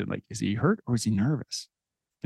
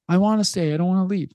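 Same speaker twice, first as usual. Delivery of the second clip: imitating son; 7 semitones higher than usual. Son insists on staying.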